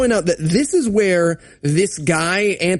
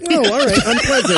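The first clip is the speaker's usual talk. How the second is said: laughing mock offense; 5 semitones higher than usual. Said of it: "he's like".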